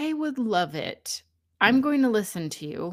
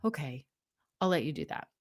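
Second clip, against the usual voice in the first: calmed-down part; 4 semitones lower, 5 dB quieter, faster than usual. Pretend. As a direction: lower and softer, settling down. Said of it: "will calm down and say".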